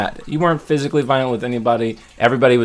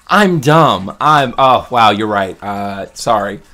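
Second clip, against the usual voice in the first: mock sheepish admission; 7 dB louder, slower than usual. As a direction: play the humbled fool. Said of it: "You're gonna laugh at this".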